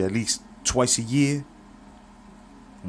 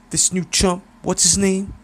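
much higher, slick hustler voice; Clever's voice; 11 semitones higher, 5 dB louder than usual. Acted. Clever hails his old friend Pops in a high, slick voice. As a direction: greet him like a smooth, flashy hustler. Clever asks about opponent.

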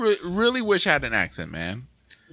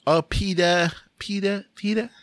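Lois Griffin voice; 4 semitones higher, slower than usual. Retold or imitated. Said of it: "What's her name from Family Guy?".

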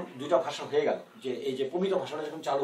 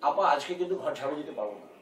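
prim, careful standard Bangla; formal scripted maid line; stilted drama Bangla. Retold or imitated. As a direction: recite it like a stiff TV-drama line. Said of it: "এরকম করে বলতে হবে".

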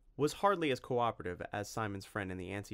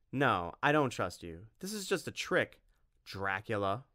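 firm refusal. Acted. Tim refuses the trick.

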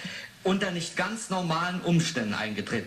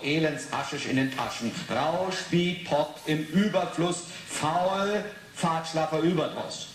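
reading the poem. Acted. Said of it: "hier steht's doch".

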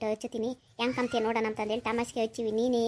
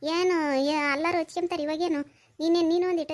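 higher, whiny exasperated complaint; exasperated protest; 4 semitones higher than usual. Acted. Grandma protests to grandpa, exasperated and whiny. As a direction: wail it back at the nagging husband.

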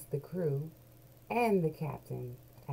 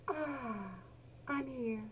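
lightly voiced; 7 semitones higher, 5 dB quieter, slower than usual. Maisie finds seat.

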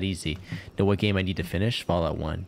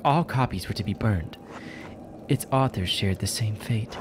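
lightly voiced impatient questioning and explaining; lightly acted story dialogue; lifted voice for tense dialogue; guarded game character; 3 semitones higher than usual.

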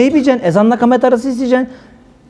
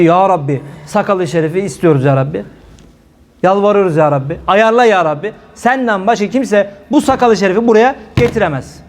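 earnest pleading prayer. Shown as a demonstration. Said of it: "İlk önce".

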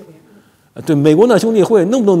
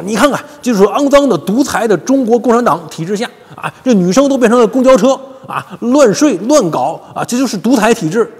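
mocking overseas critics; 6 semitones higher than usual. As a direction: parody the critics' outraged tirade. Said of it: "海外就骂". (高声夸张地模仿海外批评者的愤慨)

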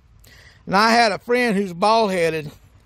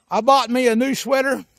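excited shout. Acted. Excited opener before Woo.

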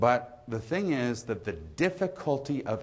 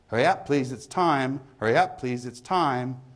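high, loud call across the pub; barman's closing call; 4 semitones higher, 4 dB louder than usual. Acted. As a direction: call time on the drinkers.

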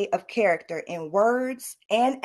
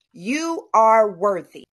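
slow, firm and a little louder, each word weighted; sincere affirmation; 4 dB louder, slower than usual. Shown as a demonstration. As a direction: say it like you truly mean it. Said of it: "Repeat after me".

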